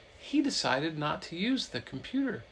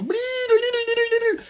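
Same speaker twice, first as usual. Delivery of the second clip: very high, loud robot beeps; R2-D2 beeping; 12 dB louder than usual. Retold or imitated. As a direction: beep like a panicking little droid. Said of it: "R two D two started going".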